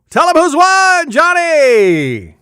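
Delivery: high, loud, long-drawn name with falling slide; game-show host's call. Pretend. Host cues announcer to name the winner, showy holler. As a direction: holler to the announcer, stretching the last word.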